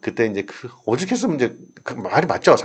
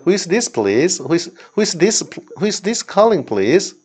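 phone question; 7 semitones higher, much slower than usual. Shown as a demonstration. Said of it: "여기 하나 this-도 쓸 수 있어요".

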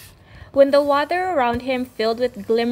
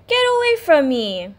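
angry; 5 semitones higher, 5 dB louder than usual. Acted. Rainbow Fish sends him away.

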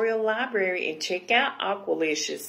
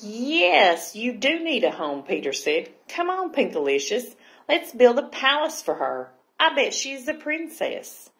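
high, lively storybook brother; eager enthusiasm; 4 semitones higher, 4 dB louder than usual. Acted. Brother urging sister to build a palace, eager. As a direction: pitch it up, keen to get building.

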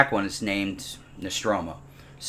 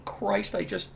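horrified gasp; 9 semitones higher, 5 dB quieter than usual. Retold or imitated. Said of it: "and I'm like".

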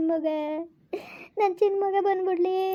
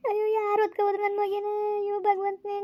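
crying; 2 semitones higher, 5 dB quieter than usual. Acted. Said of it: "ಯಾಕ್ ಹಿಂಗ್ ಅಳ್ತಾ ಇದ್ದಿ?".

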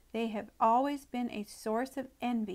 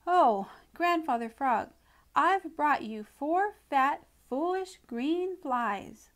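higher, louder, slow eager offer; 5 semitones higher, 5 dB louder than usual. A narrator's reading. Mouse offering flies to Grandfather Frog, eager. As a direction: present the flies proudly, out of breath.

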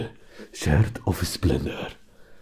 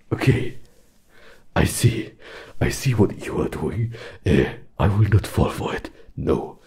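defiant; 4 dB louder than usual. Acted. Suspects a trick, pushes back.

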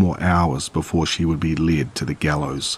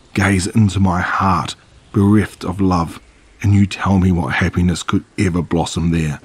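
bitter fury. Acted. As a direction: hurl the words at her in rage. Bitter Cinderella confronts fairy.

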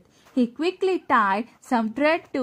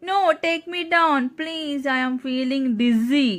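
begging; 3 semitones higher than usual. Acted. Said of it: "Terrapin begged".

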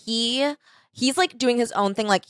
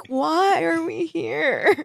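higher, very slow dazed question; dazed waking; 8 semitones higher, much slower than usual. Pretend. Dina waking up in the garbage, slow and dazed. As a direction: drift up out of sleep.

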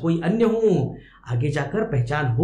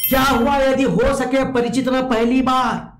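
high, sustained verse recital; poem recitation; 7 semitones higher, 3 dB louder than usual. Acted. Teacher recites the poet's question to the baby, high poem recitation. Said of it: "आगे कवि कहते हैं".

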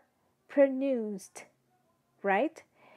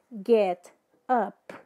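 ordinary delivery

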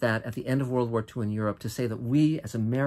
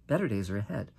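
softer, lower reassurance; warm; 3 semitones lower, 3 dB quieter, faster than usual. Real, not acted. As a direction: quietly promise it. Repeated softer.

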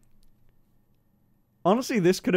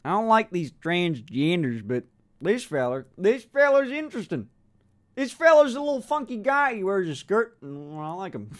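put-on imagined bigoted old fella. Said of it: "I love the, like".

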